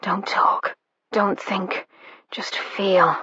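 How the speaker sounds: soft voiceless whisper. A narrator's reading. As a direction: coax her in a hushed whisper. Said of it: "he murmured".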